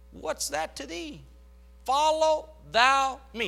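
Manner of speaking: emphatic Jesus. Acted. Jesus voiced in sermon, emphatic.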